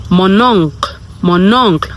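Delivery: "mon oncle" as "mon-onk"; French pronunciation. Shown as a demonstration. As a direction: link "mon oncle" into one word, final l dropped. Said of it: "So uncle is oncle".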